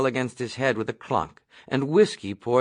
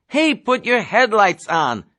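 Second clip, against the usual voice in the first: higher, louder shout from the back seat; Nately yelling at the reckless driver, loud; 9 semitones higher, 6 dB louder than usual. Acted. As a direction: yell it at the driver. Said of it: "Nately shouted".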